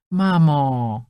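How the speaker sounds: loud, fed-up cry of mum; daughter's loud exasperated plea; exasperated protest. Acted. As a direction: cut her mother off in protest. Daughter protests mother's remarks.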